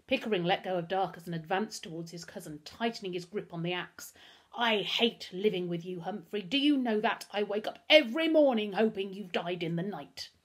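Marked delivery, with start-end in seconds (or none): 4.5-10.3 loud, bitter resentment; hateful outburst. Acted. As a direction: let the loathing out at a cousin. Hateful outburst at his cousin.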